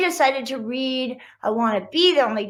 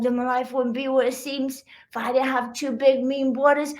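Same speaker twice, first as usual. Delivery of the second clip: ordinary delivery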